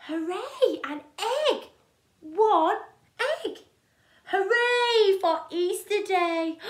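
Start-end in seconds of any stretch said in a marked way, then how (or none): 4.3-6.6 bright, loud cheer. Acted. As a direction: cheer it out happily. Cheering refrain.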